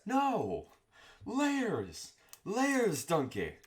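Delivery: a hammed-up, butchered Scottish Shrek; Shrek impression. Cooking vlogger yelling a Shrek line over onions, bad Scottish accent. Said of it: "I can't do a good, uh, Shrek impression".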